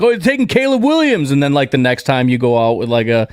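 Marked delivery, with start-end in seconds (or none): 0.0-1.3 mock teasing.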